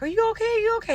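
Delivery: high, anxious repeated yell down the phone; worried yelling. Retold or imitated. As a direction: call out frantically, checking she's safe. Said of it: "they're yelling".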